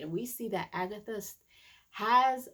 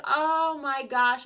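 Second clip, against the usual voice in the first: a drawn-out, louder "oh my gosh"; shocked gasp; 8 semitones higher, 10 dB louder, slower than usual. Retold or imitated. Reacting to the rabbit eating the bird, a slow shocked gasp. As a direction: gasp it slowly in disbelief. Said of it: "I was like".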